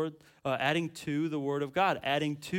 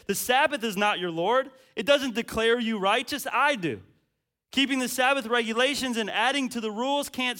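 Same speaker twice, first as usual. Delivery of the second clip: raised, firm preaching voice as Jesus; lightly voiced Jesus; 10 semitones higher, 7 dB louder than usual. Pastor voicing Jesus, rebuking rule-keepers, raised and firm. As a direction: speak as Jesus, pointing them to himself. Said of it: "Jesus says this".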